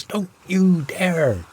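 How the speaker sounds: high, slow panicked scream. A narrator's reading. Frozen professor screaming to save his specimens. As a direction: shriek it out in alarm. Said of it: "and he screams".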